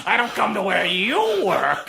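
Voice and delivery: loud, high comic protest; mock indignant yell. Apple to Eve, loud high mock indignation. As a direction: call it out as a hammed-up heckle back.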